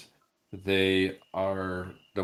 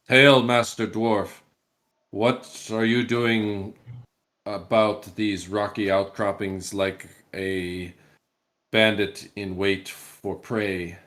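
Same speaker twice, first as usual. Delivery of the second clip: loud hail that settles into a slower challenge; booming voice; 4 dB louder, slower than usual. Acted. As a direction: call out like a mounted captain. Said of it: "calls out in kind of a booming voice".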